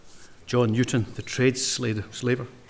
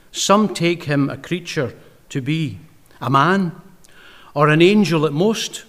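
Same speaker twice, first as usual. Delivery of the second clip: slow reading. Shown as a demonstration. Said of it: "but I'll read it slowly".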